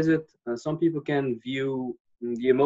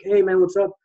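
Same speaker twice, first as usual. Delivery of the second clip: higher, louder smiley hello; open friendly greeting; 6 semitones higher, 5 dB louder than usual. Retold or imitated. Greeting anybody on the street, smiley and open. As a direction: greet like you're open to anyone. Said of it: "pretty smiley and the same fury and really open".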